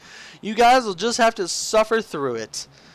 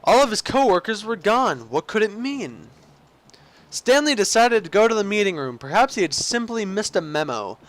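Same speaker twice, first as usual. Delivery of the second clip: measured storybook narrator delivery; game story narration. Acted. Player narrating Stanley's missing coworkers, theatrical storyteller. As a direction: narrate it with lilting mock gravity.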